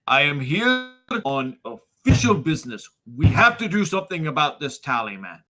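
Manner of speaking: mildly heated protest; insistent arguing. Acted. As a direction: press official business against an angry host. Boris argues back at magistrate.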